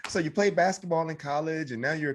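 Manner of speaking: imitated chatty stranger. Voices strangers reciting his life.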